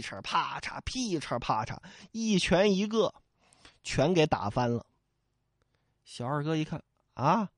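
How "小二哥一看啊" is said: ordinary delivery, nothing marked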